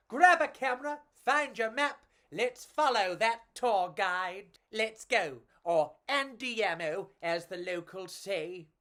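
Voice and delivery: rally your friend, lightly voiced bug; lightly voiced cockroach. Pedro urging Enrico to follow the tour guide, lightly voiced eager.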